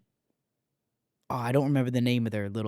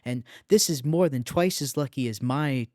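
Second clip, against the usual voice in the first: higher, excited retelling; mock freaking out; 6 semitones higher than usual. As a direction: imitate a game character getting worked up. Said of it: "starts freaking out".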